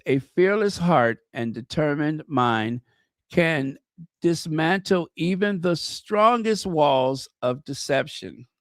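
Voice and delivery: measured, emphatic inspirational reading; reading aloud. Acted. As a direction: read the message out with weight. Reads a message aloud.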